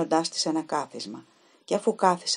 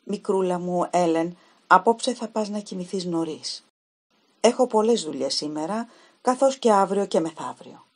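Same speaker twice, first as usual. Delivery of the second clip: hurried fiancé; 4 dB louder than usual. Retold or imitated. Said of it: "σαν να βιαζόταν".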